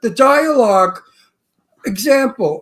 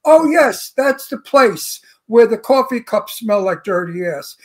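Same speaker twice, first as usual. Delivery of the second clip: prissy version. Retold or imitated. Mocking the director's rewritten line, prim and slow. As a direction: say it precious and proper. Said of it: "wanna hear how faggy it sounds".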